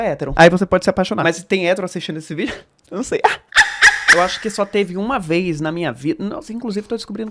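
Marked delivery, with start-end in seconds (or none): 3.3-4.1 high laugh. Real, not acted. Laugh alone.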